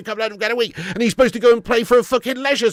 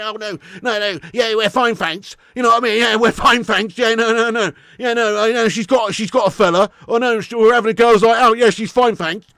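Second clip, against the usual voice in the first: blocking friend; 3 dB louder than usual. Retold or imitated. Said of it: "grandma elbowed friend pops in".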